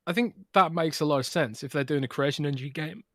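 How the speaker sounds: talking while choking. Real, not acted. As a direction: voice catching in the throat. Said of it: "I'm choking here".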